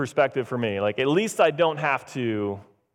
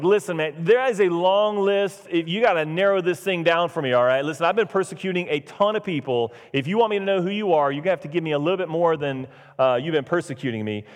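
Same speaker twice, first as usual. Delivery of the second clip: exasperated comeback. Acted. Saul answers the unknown voice, mock exasperated. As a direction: play an overwhelmed man demanding details.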